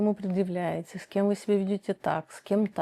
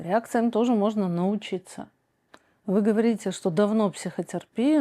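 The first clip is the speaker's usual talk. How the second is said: ordinary delivery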